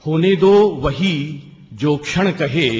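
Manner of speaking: emphatic refrain. Acted. Refrain repeated with force.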